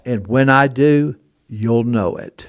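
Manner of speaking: low, slow and soft, every word weighed; mysterious stranger. Retold or imitated. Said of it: "I want to do his voice exactly how he said it".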